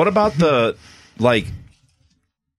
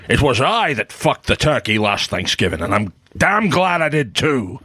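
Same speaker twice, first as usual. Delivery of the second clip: lightly voiced Scottish film star; a hint of a famous Scottish actor's accent; Sean Connery. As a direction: do a passable Scottish screen-legend voice. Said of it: "That's a solid Connery".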